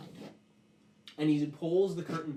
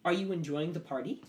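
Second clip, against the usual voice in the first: metal creature small talk; 3 semitones higher than usual. Acted.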